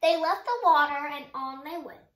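put-on lively read-aloud for young kids; gentle children's story reading; storybook narration. A narrator's reading. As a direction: tell it like a bedtime story, rhyme lilting. Reads picture book aloud.

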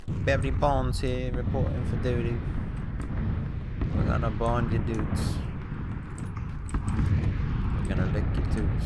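high, loud put-on character voice; Barry Bonds.

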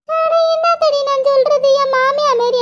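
high, slow keening cry that eases off; theatrical oppari, sung-out sorrow; wailing lament. Acted. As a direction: draw out the opening wail like a mourner. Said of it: "ஒப்பாரி வைக்க வச்சு விட்டாளே".

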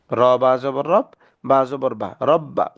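syllable by syllable, then "রব্বা" with the b held; tashdid spelling drill. Shown as a demonstration. Teacher spelling for beginners, letter by letter into a doubled "রব্বা". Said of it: "তাসদিদওয়ালা হরফ দুইবার পড়া যায়".

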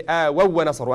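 آووا with the doubled waw; shadda emphasis. Shown as a demonstration. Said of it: "So that's why I say".

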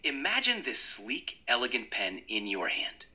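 a touch of a pitchman; salesman pitch. Pretend. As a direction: sell the pen like a salesman. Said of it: "try to be a salesman".

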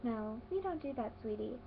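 softly spoken, gentle correction; mild motherly scolding. Retold or imitated. Auntie mildly correcting her daughter, soft and motherly. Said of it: "she goes".

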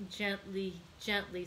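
gentle, unhurried soothing with a smile; calm an eager son kindly; smiling. A narrator's reading. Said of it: "said the old man with a smile".

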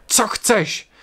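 high, loud alarm call; loud shout. Acted. William shouting to wake sisters, loud alarmed cry. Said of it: "vykřikl hlasitě".

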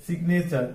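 সিগনেচার as "sig-ne-char", g audible; sounded g. Shown as a demonstration. Teacher showing the split syllables, সিগনেচার with sounded g. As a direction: close the first syllable of সিগনেচার on a hard g. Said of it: "এখানে জিটা উচ্চারণ হবে".

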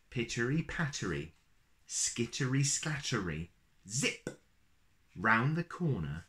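put-on lilting read-aloud rhythm for a children's picture book; storybook reading. A narrator's reading. Uncle reading a rhyming book to little kids, lilting storyteller voice. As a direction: read it like a bedtime story, bouncy verse.

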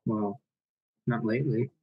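put-on light Irish nanny accent; a hint of a brogue as the nanny. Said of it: "my terrible Irish accent".

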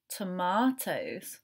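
slow, drawn-out blend; slow teacher blend. Shown as a demonstration. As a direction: stretch the word out slowly. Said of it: "Let's read it again so you can listen".

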